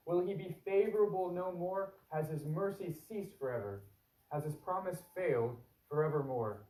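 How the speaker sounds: measured, earnest psalm reading; scripture reading. Acted. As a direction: read the lament aloud to the congregation. Pastor reads psalm aloud.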